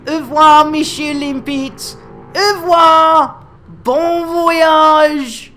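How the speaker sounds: loud, high, hammed-up French goodbye; mock French farewell. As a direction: sing it out like a theatrical Frenchman.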